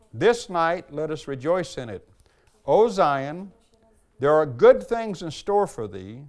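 devotional reading. Acted. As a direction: read it like an old sermon to the congregation.

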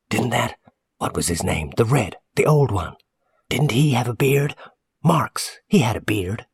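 high, partly whispery recollection; suspicious woman customer. Acted. Customer linking a stranger's beard to Marx, suspicious. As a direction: grope for a name in a high, suspicious voice. Narrator voices suspicious Missus Hackett.

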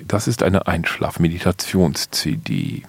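low humming Undertaker voice; sleep story narrator. Pretend. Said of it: "Sollte einfach ins Mikrofon brummen".

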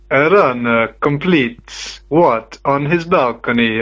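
slow thick Italian accent; lightly voiced Italian accent. Shown as a demonstration. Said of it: "channeling my inner Carmine Pappa".

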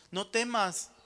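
firm, loud NO TEMAS. Shown as a demonstration. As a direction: declare "No temas" loudly, full voice. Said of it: "te dice el Señor". ("No temas" dicho con fuerza, en voz alta)

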